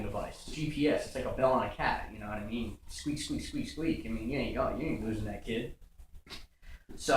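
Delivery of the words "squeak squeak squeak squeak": higher, soft little squeaks; quick, airy squeak noises; squeak-toy imitation. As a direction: mimic squeaky shoes with each step. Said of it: "they squeak like a squeak toy".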